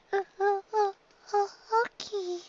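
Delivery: high, soft, stammering filly voice; soft and timid. Acted. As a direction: stammer it out small and scared. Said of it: "she said softly".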